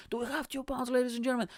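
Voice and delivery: very high auctioneer's call to the crowd; hyping auctioneer. Retold or imitated. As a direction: hype up the bidding. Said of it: "I'm hyping up the energy".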